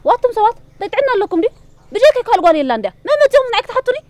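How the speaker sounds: exasperated outburst. Acted. Arsema protests to her neighbour about everyone asking her to marry, exasperated. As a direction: throw up your hands in disbelief. Woman exasperated by marriage questions.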